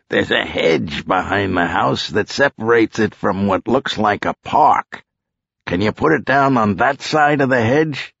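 lightly voiced cop directing a pilot; cop in command. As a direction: scout the landing spot aloud.

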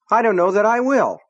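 angry but rattled; trembly defiance. A narrator's reading. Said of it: "His voice was trembly".

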